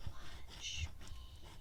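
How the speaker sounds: very soft, hushed whisper. A narrator's reading. Snake speaking in a poem, whispering very softly. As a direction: barely breathe the words out in a whisper. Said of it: "it whispered".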